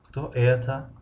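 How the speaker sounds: это drawn out with a rising tune; lingering final это; stress on the ending. Shown as a demonstration. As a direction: lean on это and lift it. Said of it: "охири ҷумларо".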